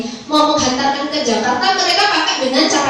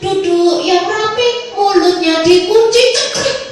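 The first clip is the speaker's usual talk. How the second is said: mock strict teacher giving slow, sing-song orders at a higher pitch; sing-song commands to a class, a little higher; strict teacher drill; 5 semitones higher, slower than usual. Teacher ordering the class to sit tidy, mock sing-song drill.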